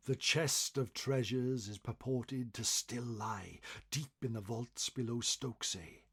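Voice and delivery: plain reading voice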